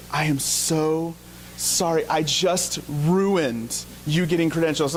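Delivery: slow, understated imitation of mortified regret; mortified apology. Wife apologizes to husband after the interview, mildly mortified. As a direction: draw out the retold apology, weighing each word. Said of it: "my wife was mortified".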